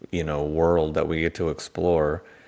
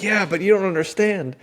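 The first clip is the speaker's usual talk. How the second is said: much higher and louder, eager pleading; excited protest; 14 semitones higher, 4 dB louder than usual. Retold or imitated. Tea nerd defending his passion to shop staff, excited high protest. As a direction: gush like a tea nerd who can't contain himself. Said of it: "excited 'cause I'm like".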